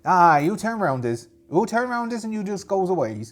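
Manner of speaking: put-on high, loud muddled pirate accent; pirate accent of no known origin; odd put-on accent. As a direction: order them off in a silly pirate accent.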